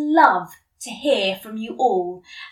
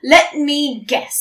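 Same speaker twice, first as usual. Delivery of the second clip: sarcastically; 3 semitones higher, 5 dB louder, slower than usual. Acted. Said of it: "I said sarcastically".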